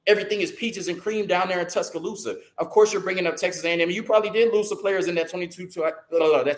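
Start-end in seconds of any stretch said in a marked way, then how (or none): 2.6-3.9 speaking fast. Real, not acted. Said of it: "I'm just speaking fast".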